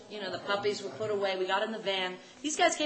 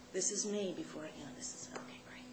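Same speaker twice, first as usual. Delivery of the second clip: subdued take; 5 semitones lower, 12 dB quieter than usual. Acted. Acting out low-key early take.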